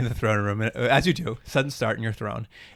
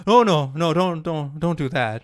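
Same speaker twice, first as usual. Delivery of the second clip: higher, stammered mock protest; imitation of a flustered henchman; panicky toady; 4 semitones higher than usual. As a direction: hurriedly talk the boss out of it. Acting toady talking boss out of it.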